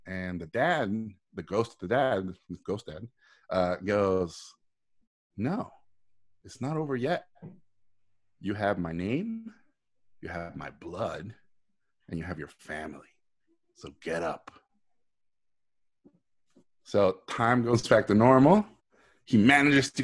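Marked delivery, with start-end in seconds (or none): 5.4-14.5 soft, fading ghostly father urging his son; a hushed voice from beyond, getting quieter. Retold or imitated. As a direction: ghost dad telling his fallen son to get up, softly. Ghost father encourages fallen son.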